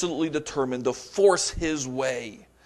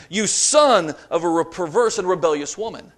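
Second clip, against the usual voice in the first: a hint of furious king, louder; angry outburst; 2 semitones higher, 6 dB louder than usual. Preacher voicing Saul raging at Jonathan, louder. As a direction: bite out the insult like an enraged father. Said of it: "Saul's anger burned against Jonathan".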